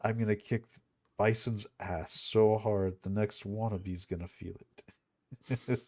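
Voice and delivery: slow, deliberate hero speech; rousing movie speech. Retold or imitated. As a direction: drag out each threat slowly. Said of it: "it's got a great speech".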